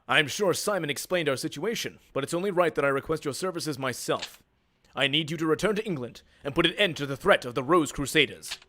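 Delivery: formal, measured game-hero speech; lightly voiced heroic prince. Prince requesting the duelist's services, lightly voiced formal hero. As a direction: address your champion like a noble prince, lightly acted.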